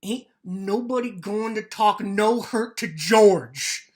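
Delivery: loud, slow, threatening; angry warning. Acted. Lenny warning Crooks not to talk hurt, slow angry threat. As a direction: lay each word down as a threat.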